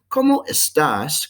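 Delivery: "¿Cómo estás?" said slowly, clear Spanish vowels; slow Spanish model phrase. Shown as a demonstration. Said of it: "The E S T is the temporary conditions one".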